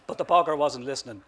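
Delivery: ordinary delivery, nothing marked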